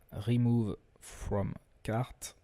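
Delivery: slow, careful English accent; English product term in a deliberate English accent, drawn out; showy English accent. Real, not acted. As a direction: say it slowly with a proud English accent. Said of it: "Vous noterez mon superbe accent anglais".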